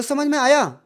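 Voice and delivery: समझ में आया asked as a question; a teacher's questioning समझ में आया; question tune. Shown as a demonstration. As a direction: check if they got it. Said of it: "ये question ही तो है".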